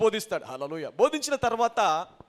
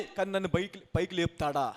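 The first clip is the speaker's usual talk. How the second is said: sinking, softer self-doubt; doubtful question; 4 semitones lower, 5 dB quieter than usual. Acted. Doubter wondering whether God will lift him, subdued. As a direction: let the confidence fall away. Acting doubt after loud belief.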